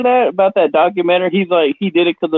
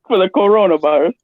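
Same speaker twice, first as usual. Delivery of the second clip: lightly voiced Austrian-accented strongman; Schwarzenegger; 4 semitones higher, faster than usual. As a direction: toss out a hint of an action-star impression. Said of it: "All right, Schwarzenegger".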